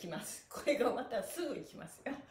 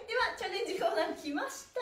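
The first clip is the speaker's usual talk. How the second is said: quick, high game-show announce; excited announcement; 6 semitones higher, faster than usual. Real, not acted. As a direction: hype up the next segment. Announcing the challenge corner. (高めで早口の盛り上げアナウンス)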